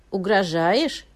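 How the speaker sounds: ordinary delivery, nothing marked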